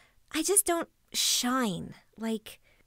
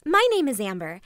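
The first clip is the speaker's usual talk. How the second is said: louder, cheery self-introduction; upbeat restart; 5 dB louder than usual. Acted. Vlogger starting over after oversharing, upbeat and louder. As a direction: launch in brightly for the retake.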